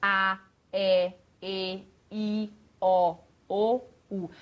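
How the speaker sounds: each vowel mouthed wide and distinct; over-articulate every vowel; sequência de vogais exagerada; exaggerated vowel sequence. Shown as a demonstration. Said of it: "E depois a sequência toda".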